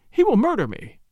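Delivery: high, terrified woman's cry; shriek. A narrator's reading. Woman fleeing a gunman, shrieking in terror. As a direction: cry out in fear of your life. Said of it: "she shrieked".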